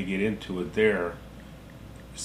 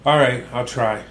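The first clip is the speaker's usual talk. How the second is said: shouting into a phone; 4 dB louder than usual. Real, not acted. Loud on phone call.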